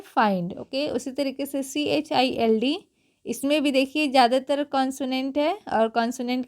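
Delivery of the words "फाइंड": फाइंड said with a long ai; teaching the word फाइंड; pronounced find. Shown as a demonstration. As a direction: read फाइंड as f-ai-nd. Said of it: "F I N D को क्या पढ़ेंगे".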